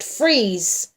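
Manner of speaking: loud yelled order. A narrator's reading. Policeman halting someone in a scuffle, yelled. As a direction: bark it as a command. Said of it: "Wyatt yelled".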